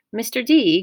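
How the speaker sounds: high, hesitant voice, mildly timid. A narrator's reading. Grover asks the camp director for a favour, timid. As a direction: pipe up as if nervous to ask. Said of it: "Grover asked timidly".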